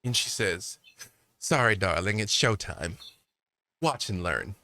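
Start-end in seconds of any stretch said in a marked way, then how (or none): 1.4-4.6 put-on a lightly done, lower accent; breezy showtime exit in a mild accent; a faint haughty accent, dropping low at the end; put-on NPC accent. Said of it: "Get better at the accent".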